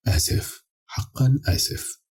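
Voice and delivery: hushed, unvoiced whisper; whispered apology. A narrator's reading. Adam apologises in the ear of the dead woman, whispering. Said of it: "وهمست في أذنها".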